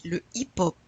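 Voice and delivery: HIP-HOP said as "eep-op", no H; French "hip-hop" with the H left silent. Shown as a demonstration. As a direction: drop both Hs in "hip-hop". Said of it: "You don't pronounce the H".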